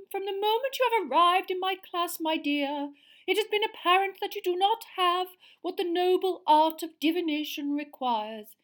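a cold put-down; icy seer. A narrator's reading. Angry teacher putting down her pupil, high and loud.

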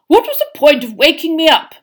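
high, loud indignant call; grumpy high-pitched complaint. A narrator's reading. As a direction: call after him, annoyed at being woken. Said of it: "called grumpily after him".

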